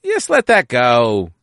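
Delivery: high, stretched-out placating voice; acted-out, high-pitched coaxing; coaxing plea. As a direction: gently plead with a stubborn sister. Acting out coaxing a reluctant sister.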